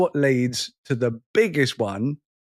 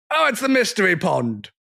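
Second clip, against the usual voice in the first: lightly put-on TV catchphrase, pitched higher; quoted catchphrase; 4 semitones higher than usual. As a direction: mimic the show's exclamation. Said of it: "we go".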